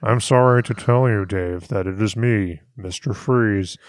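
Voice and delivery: cold robot voice delivering bad news. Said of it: "He sounds like a robot, man".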